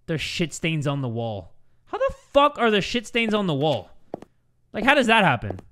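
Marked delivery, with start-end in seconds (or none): 1.9-5.6 higher, disbelieving question with a punched swear; incredulous. Real, not acted. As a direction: demand to know how this happened. Repeats it in disbelief.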